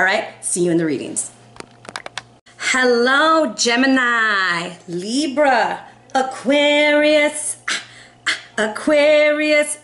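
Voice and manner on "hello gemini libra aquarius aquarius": slow, stretched, higher call of Aquarius; drawn-out calling. Acted. Calling the Aquarius viewers to their reading, slow drawn-out call. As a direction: sing out to the Aquarius crowd.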